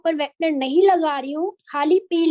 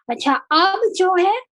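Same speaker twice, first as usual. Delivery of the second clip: choppy, glitchy call audio; glitchy robotic call. Real, not acted. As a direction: voice breaking up on a bad call. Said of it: "ma'am, आपकी आवाज अटक रही है ma'am".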